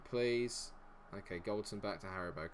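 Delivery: ordinary talk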